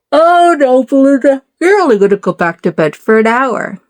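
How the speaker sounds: mock wheedling self-talk. Inner voice tempting herself.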